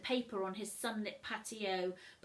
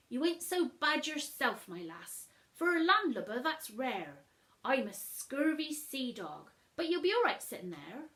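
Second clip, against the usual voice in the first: put-on friendly pirate boy; 3 semitones higher, 4 dB louder than usual. Jim greeting Matilda at school, light pirate swagger. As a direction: brag like a young sea dog.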